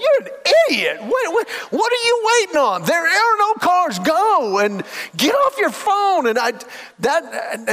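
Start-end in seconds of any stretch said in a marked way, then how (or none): 0.0-6.3 windshield yelling. Retold or imitated. Frustrated driver yelling at a car through the windshield. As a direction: yell at the other driver through the glass. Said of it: "yelling at somebody through the windshield".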